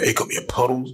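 mildly aggressive mock cat call. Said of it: "Be more aggressive".

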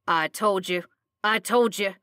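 mildly excited repeated claim. A narrator's reading. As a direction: crow it like you were proven right. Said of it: "he was declaring excitedly".

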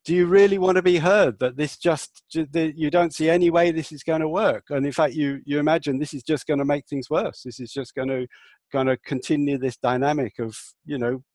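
meet the protesters' intensity; intense empathic reflection. Shown as a demonstration. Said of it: "I would say".

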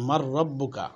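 "mar rabbuka" with nun assimilated into a doubled r; nun merged into ra. Shown as a demonstration. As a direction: join nun into the ra, no n sounded. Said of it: "এ রার সাথে মিলিয়ে পড়ছি". (নুনকে রা-এর সাথে মিলিয়ে উচ্চারণ)

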